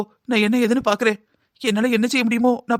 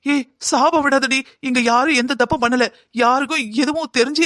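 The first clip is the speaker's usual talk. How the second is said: sharp scolding; 4 semitones higher than usual. Acted. Mother scolds daughter for cursing.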